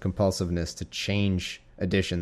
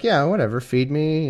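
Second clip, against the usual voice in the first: mock cat attitude; 5 semitones higher than usual. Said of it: "they're just like".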